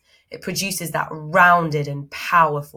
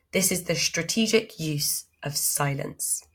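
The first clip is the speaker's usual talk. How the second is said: usual speaking voice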